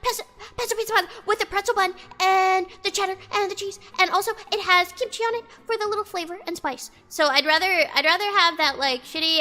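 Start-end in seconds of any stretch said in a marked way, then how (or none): 0.0-6.9 lightly mocking trendy menu recital; gushing foodie, lightly imitated; mock foodie pitch. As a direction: pile up the ingredients in a mock sales pitch. Mocks trendy food recommendations.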